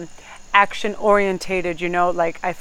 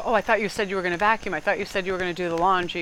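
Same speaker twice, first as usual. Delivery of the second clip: nagging partner; faster than usual. Retold or imitated. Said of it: "come in the door and go".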